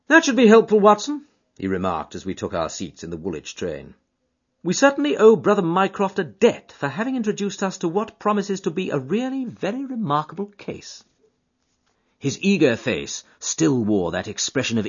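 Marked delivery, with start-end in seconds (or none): 0.1-1.3 higher, louder eager detective; keen detective to his friend; Holmes voice. Acted. Holmes to Watson on the train, eager and keen. 4.6-11.0 higher, louder eager detective; keen detective to his friend; Holmes voice. Acted. Holmes to Watson on the train, eager and keen.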